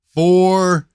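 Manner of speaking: very high, loud scream. Acted. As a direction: scream it right in her face. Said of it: "he screamed in her face".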